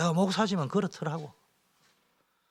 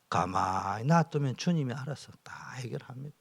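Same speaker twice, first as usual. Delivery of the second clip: whispered reassurance; 5 dB quieter than usual. Acted. Pastor assuring believers God will fix it, whispered. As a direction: whisper it, calm and certain.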